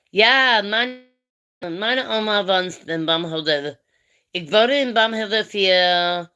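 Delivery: a light German accent when speaking German. Shown as a demonstration. Showing her chat she can switch into German, lightly. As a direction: slip into German with a German lilt. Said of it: "I can get a German accent".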